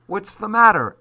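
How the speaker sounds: high, loud, sudden demand; loud brusque question. A narrator's reading. Armand finding the children crying, loud brusque question.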